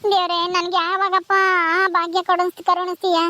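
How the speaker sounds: acted crying. Childless woman alone, longing for a baby, tearful lament. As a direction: plead tearfully to God. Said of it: "ಯಾಕ್ ಅಳ್ತಾ ಇದೀಯ".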